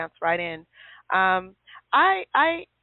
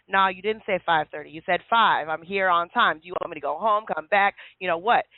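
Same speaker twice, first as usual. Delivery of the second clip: aggravated husband; 3 semitones lower than usual. Retold or imitated. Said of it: "He was, like, aggravated".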